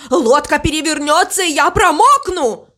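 high, panicky outburst; panicky cry. A narrator's reading. Crow fears the boat will capsize, panicky cry. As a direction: cry out, climbing in pitch. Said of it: "кричал он".

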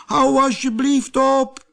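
high, loud pleading little voice; little man crying out. A narrator's reading. Jack-in-the-box begging the hammer, high pained cry. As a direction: beg the hammer to stop. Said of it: "riep het mannetje".

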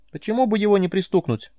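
high squeaky little creature voice; high-pitched squeaky alien; Nelka's squeaky voice. A narrator's reading. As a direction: squeak it out, callous and careless. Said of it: "ответил Нелкин голос".

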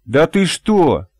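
high, slow, fake protest; insincere denial. A narrator's reading. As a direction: overplay the denial so it rings false. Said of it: "Даже самой стало противно, насколько это получилось неискренне".

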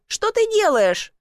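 high, slow cry of alarm; cried out. A narrator's reading. Woman seeing him lean into the chimney, cried out. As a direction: call out in disbelief. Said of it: "крикнула Василиса".

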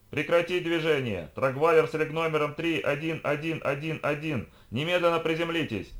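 high, stretched loudhailer order; amplified official warning; yelling through amplifier. A narrator's reading. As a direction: bellow it like a military megaphone. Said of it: "заорал кто-то через усилитель".

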